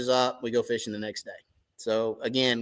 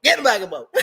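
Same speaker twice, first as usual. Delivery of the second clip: laughing; 8 semitones higher, 4 dB louder, much faster than usual. Retold or imitated. Retold scolding while laughing.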